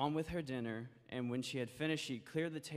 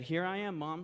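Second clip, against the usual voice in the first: put-on higher, brighter little girl; child's voice; 5 semitones higher, 4 dB louder than usual. Daughter answering her mother, light child voice. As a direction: chirp it like a young girl.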